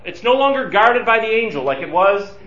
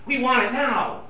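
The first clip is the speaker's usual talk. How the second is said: higher-pitched urgent plea; 5 semitones higher than usual. Acted. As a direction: press the plea with impatience. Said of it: "there's an urgency here".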